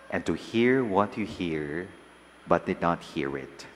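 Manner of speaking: measured liturgical proclamation; gospel reading. Acted. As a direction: read the Gospel aloud at mass.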